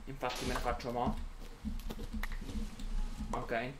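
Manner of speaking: talking through hiccups; hiccuping between words. Real, not acted. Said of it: "Chiedo scusa per il singhiozzo".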